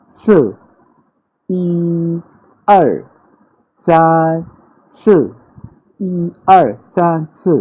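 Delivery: "ई" and "सान" high and level, "अर" and "स" jerked sharply down; rhythmic tone counting. Shown as a demonstration. Teacher counting to four rhythmically to aid memory. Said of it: "rhythmically अगर इसको आप सुनेंगे".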